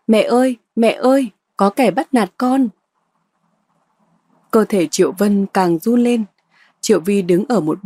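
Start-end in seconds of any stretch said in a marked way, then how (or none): 0.1-2.7 higher-pitched mock cry for mum; mocking call. Cẩm Mai calling her rival's mother for her, mocking wail. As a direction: call for mummy in a raised, taunting voice. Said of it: "để tôi gọi phụ cho".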